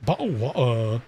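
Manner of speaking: mock British stock phrases; British accent. Shown as a demonstration. American warming up on stock phrases, mock British accent. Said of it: "let me tune up".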